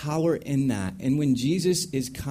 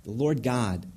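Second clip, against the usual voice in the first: solemn proclamation; 2 semitones lower than usual. Retold or imitated.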